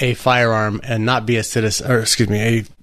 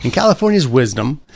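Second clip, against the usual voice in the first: slightly raised, pointed irony; sarcastic. Real, not acted. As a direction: lean into the mock praise. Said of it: "that's sarcasm".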